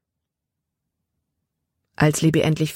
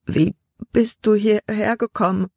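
chattering teeth; 5 semitones higher than usual. A narrator's reading. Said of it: "mit klappernden Zähnen".

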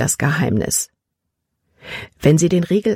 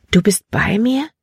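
higher-pitched, unsure question; frightened girl asking; 5 semitones higher than usual. A narrator's reading. Trapped girl asks God if he is there, uncertain. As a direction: ask upward, hardly daring to believe.

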